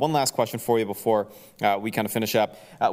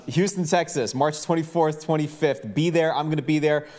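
higher-pitched announcer pitch; event promo read; 5 semitones higher than usual. Acted. Host pitches the Houston event to listeners, promo read. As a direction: sell the event with punchy, raised delivery.

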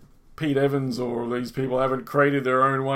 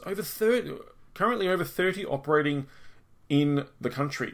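amazed repeat; 2 semitones higher than usual. Real, not acted. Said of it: "that's amazing".

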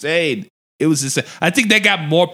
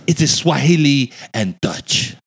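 slow imitated South African accent; 2 semitones lower, slower than usual. White lady explaining her language, imitated South African accent. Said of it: "very distinct accent".

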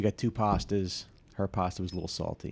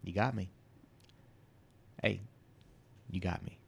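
Walter White caught; 2 semitones lower, 9 dB quieter than usual. Retold or imitated. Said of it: "like Walter White in that episode".

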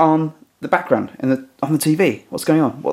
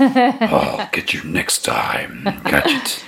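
slow, higher cartoon villain growl; hammy Inspector Gadget villain swearing revenge; Dr Claw villain voice; 6 semitones higher, much slower than usual. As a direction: threaten like a cartoon supervillain. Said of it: "Claw, whatever his name was from Inspector Gadget".

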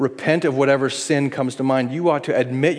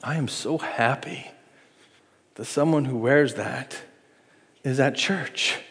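glad welcome; 5 dB quieter than usual. Retold or imitated.

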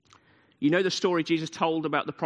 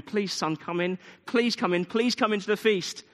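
pleading father, rising higher as he begs; begging father; 5 semitones higher than usual. Retold or imitated. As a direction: coax the son to come inside. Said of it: "The father's begging him".

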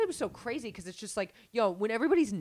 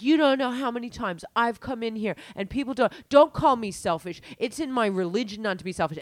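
imitating the woman; 4 semitones higher, 4 dB louder than usual. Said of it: "And she's like".

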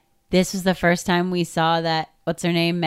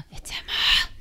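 gasped reveal. Real, not acted. Gasping reveal.

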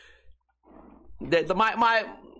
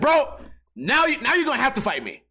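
threatening; 5 semitones higher than usual. Retold or imitated. After pushing the guy.

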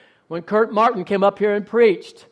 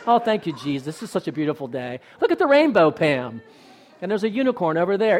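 mock blissful piety; 3 semitones lower, 3 dB quieter than usual. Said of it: "you guys are so sweet and so Christian".

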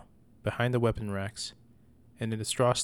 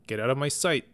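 higher, louder angry order; furious order; 4 semitones higher, 3 dB louder than usual. Acted. Mother ordering her son out. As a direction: drive him out of the room.

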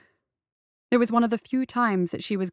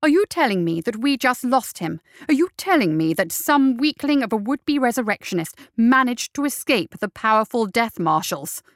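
a touch louder, furious growl; growled fury; 3 semitones higher, 4 dB louder than usual. Acted. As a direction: growl the question at the men who lost him. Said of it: "her voice growled".

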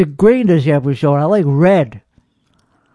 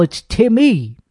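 "Timmy" with the second syllable punched higher; second syllable stressed; 3 semitones higher, slower than usual. Retold or imitated. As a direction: insist on the MY ending of "Timmy". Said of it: "say the second syllable".

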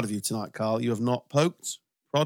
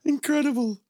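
mock amazement; slower than usual. Mock awe at ball in crowd.

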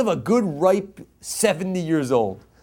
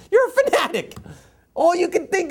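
fervent high exclaim; 12 semitones higher than usual. Real, not acted. Rabbi rousing his students, fervent high exclaim. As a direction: pitch leaps up on fanatic. Preaching peak, pitch jumps high.

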